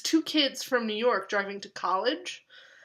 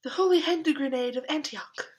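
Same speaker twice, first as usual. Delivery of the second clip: grand Holy Grail quote; 5 semitones higher, 4 dB louder than usual. Retold or imitated. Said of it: "everyone can quote parts".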